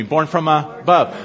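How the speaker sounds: "Born from above" drawn out slowly for the crowd to repeat; slow, deliberate. Shown as a demonstration. Preacher leading his congregation in a slow call-and-response. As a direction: lead the saints through "Born from above", word by word. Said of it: "Everybody say that with me".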